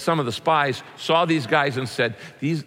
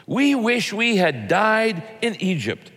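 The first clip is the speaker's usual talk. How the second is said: high, slow mock wail; 7 semitones higher, slower than usual. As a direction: wail it out in drawn-out complaint. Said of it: "they wailed".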